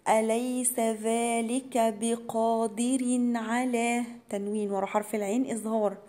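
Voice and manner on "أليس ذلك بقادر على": slow, measured recitation of أولى لك فأولى; Quran recitation. Shown as a demonstration. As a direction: recite each letter with its full length. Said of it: "على مد أربع حركات". (تلاوة مرتلة ببطء)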